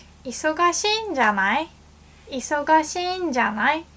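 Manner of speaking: casual guess. Shown as a demonstration. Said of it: "And you can be like".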